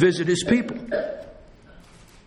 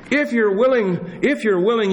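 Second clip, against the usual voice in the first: pleading, pitched higher, pressing the repeat; leper crying out; 7 semitones higher than usual. Acted. Preacher voicing the leper begging Jesus to heal him, pleading cry. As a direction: beg like a desperate leper. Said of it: "that leper crying out".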